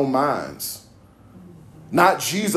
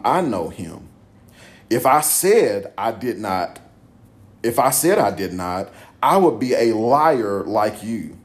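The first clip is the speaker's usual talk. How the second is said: emphatic Bible reading with punched key words; scripture reading. A narrator's reading. Preacher reading Jesus answering the crowd, emphatic scripture reading. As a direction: read the dialogue firmly, pausing between phrases. Reads scripture dialogue aloud.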